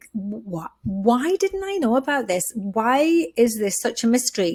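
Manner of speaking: indignant, fed-up, angry, disbelieving tone. Retelling own words after learning about perimenopause: retelling angry past words. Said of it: "then I was angry".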